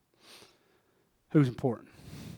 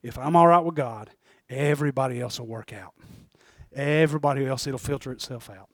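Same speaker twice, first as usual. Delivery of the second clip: measured, deliberate repeat; slower restatement; 2 semitones lower than usual. Shown as a demonstration. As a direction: spell the point out phrase by phrase, with pauses. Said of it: "I'll say that real slow again".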